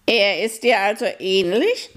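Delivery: high owl voice, calm; a high, patient old owl; wise owl. Acted. Owl asks about Aljoscha. (hohe, ruhige Eulenstimme)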